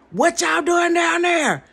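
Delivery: high, slow, loud creepy sing-song call. Retold or imitated. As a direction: call down to the kids like a lurking clown. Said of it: "on some creepy junk".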